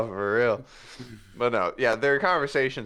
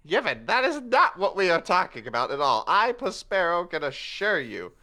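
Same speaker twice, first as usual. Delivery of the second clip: pompous denial; 5 semitones higher than usual. Acted.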